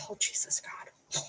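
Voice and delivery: whispered under the breath, slow; slow whispered exasperation; exasperated whisper. Real, not acted. Reacting to cat hair.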